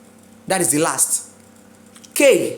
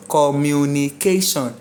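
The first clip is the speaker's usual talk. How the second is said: syllable by syllable; 4 semitones lower than usual. Shown as a demonstration. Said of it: "what are the second to last syllable".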